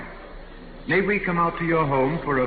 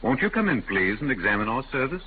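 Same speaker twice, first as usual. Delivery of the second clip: lightly voiced polite machine servant; a hint of a courteous robot inviting him in; humanoid robot voice; 3 semitones lower than usual. Humanoid robot invites the salesman inside, lightly mechanical politeness. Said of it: "that's a remarkable voice".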